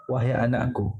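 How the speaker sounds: put-on affectionate call to one's child; penuh kasih sayang. Shown as a demonstration. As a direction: say it tenderly, at an easy pitch. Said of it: "dengan ungkapan yang penuh kasih sayang". (penuh kasih sayang)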